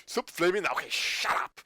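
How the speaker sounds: mock outburst after a short build-up; imitated fed-up snap; retold snap. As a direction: break off into an exasperated "shut up". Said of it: "It's just the build up to it".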